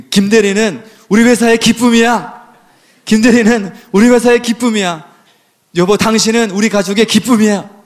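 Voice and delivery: a touch of a delighted announcement; acted praise. Acts out boss and spouse praising.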